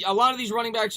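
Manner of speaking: ordinary delivery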